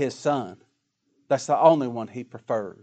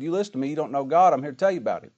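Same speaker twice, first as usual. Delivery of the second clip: bold confrontation. Retold or imitated. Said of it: "squared up to him ... and said".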